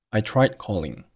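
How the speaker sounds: tried with its d swallowed before calling; I tried calling, tongue set for d but silent; unreleased d. Shown as a demonstration. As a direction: hold back the d of tried, then calling. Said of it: "tried结尾的的失去爆破".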